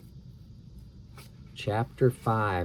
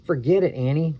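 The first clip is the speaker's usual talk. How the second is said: louder, higher brush-off; Jack scolding; 4 semitones higher, 3 dB louder than usual. Acted. Brother telling sister to give up, louder. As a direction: snap it at her to drop it.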